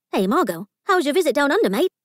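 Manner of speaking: put-on joking Australian accent, lightly done; a jokey Aussie greeting under the table. Phyllis teasing Margot under the table, light Australian accent. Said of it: "Phyllis joked in an Australian accent".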